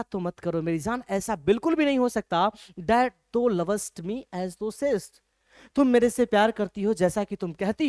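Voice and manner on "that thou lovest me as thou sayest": very slow recital of the verse; slow poem reading. Shown as a demonstration. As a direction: read it out word by word. Teacher recites poem line.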